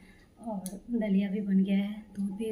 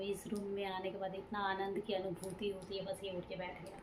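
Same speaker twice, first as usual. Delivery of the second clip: quiet but voiced; soft voice; 10 dB quieter than usual. Real, not acted. To viewers after the baby wakes, softly. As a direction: say it softly, no whisper. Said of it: "कितना धीरे मैं बोली हूँ".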